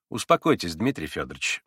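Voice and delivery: calm him down with your own composure; calm and soothing. A narrator's reading. Investigator calming the frantic Mitya, steady and soothing. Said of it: "победить исступлённого своим спокойствием".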